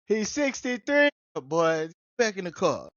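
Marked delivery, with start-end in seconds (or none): 0.1-1.1 higher, slow tattling voice; snitching on dad. Retold or imitated. Son snitching on his dad's age, slow high tattle. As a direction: drag it out, tattling on the old man. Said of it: "Hear him snitch on my dad".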